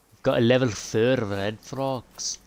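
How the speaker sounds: slow, lightly Scottish line; mild Scottish accent. Shown as a demonstration. Gamer announcing the fox in a Scottish accent. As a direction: keep the light Scottish lilt going. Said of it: "That was my Scottish accent".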